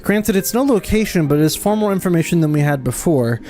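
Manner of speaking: lightly acted noble scholar, measured; lightly voiced hero. Streamer voicing the game's scholar, lightly acted. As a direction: read the quest lines in a mild noble voice. Reading NPC dialogue aloud.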